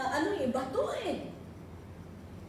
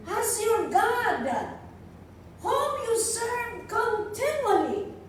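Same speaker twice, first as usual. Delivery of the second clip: anguished plea; 5 semitones higher, slower than usual. Acted. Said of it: "in an anguished voice".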